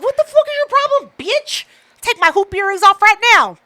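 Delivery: high, hammed-up confrontation; retelling squaring up to the rude neighbor; mock fight-ready yell. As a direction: act ready to take the earrings off and fight. Retold confrontation with white girl.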